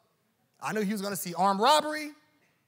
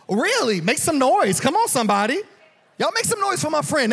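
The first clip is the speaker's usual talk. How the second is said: crowd hype; 7 semitones higher, 8 dB louder than usual. Real, not acted. Hyping the crowd to cheer.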